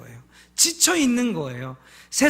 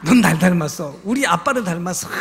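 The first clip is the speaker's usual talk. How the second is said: tender to son; 6 semitones lower than usual. Retold or imitated. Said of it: "막 이렇게 해요".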